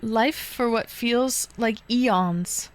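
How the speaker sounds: slow, tired drawn-out line; weary. Real, not acted. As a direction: sound worn out and achy. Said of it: "my back".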